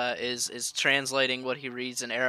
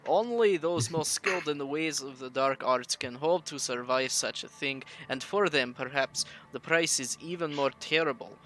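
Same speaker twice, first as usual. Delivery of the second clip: put-on Russian accent. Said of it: "that Russian accent".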